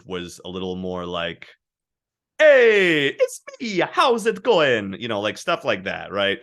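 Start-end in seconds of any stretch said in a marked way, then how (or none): 2.4-4.9 put-on a much higher, slow, sing-song early Trinidadian accent. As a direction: play your old Trinidadian accent, bright and drawn out. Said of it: "my Trinidadian accent, which back then".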